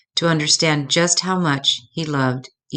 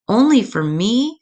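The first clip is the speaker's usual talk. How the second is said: put-on amazed child; 6 semitones higher, 4 dB louder than usual. Cub amazed.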